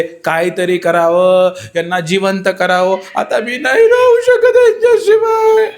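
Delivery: slow plea rising to a very high, loud wail; pleading wail. Acted. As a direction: beg the guru, breaking into a shrieking cry. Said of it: "बायकोनी सुरू केलं सगळं".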